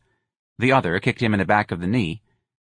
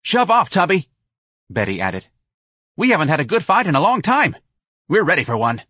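put-on loud taunting girl; 8 semitones higher, 5 dB louder than usual. A narrator's reading. Betty taunting.

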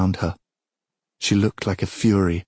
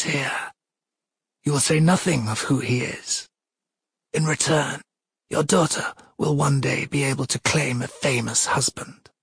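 higher, controlled, imperious voice; cold commanding goddess; 7 semitones higher than usual. Acted. Goddess dictates terms to the king, cold command. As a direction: lay down terms as a goddess, voice raised in pitch.

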